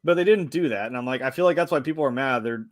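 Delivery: ordinary talk, nothing marked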